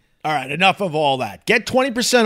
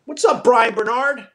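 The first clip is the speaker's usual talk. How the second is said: higher, nasal Western New York greeting; Western New York accent; 7 semitones higher than usual. Shown as a demonstration. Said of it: "they speak from their noses sometimes".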